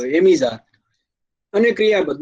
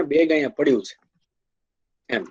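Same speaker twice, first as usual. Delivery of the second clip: ordinary talk, nothing marked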